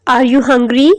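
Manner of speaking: "hungry" swings up at the end; rising intonation. Shown as a demonstration. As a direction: lift the last syllable of "hungry". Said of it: "hungry में भी देखें last में आवाज़ जो है वो ऊपर की तरफ". ("hungry" के अंत में चढ़ती आवाज़)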